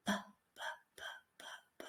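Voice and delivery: whispered "P" bursts, no voice. Shown as a demonstration. Teacher whispering B so it becomes P. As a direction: blow out each p. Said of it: "but whisper it".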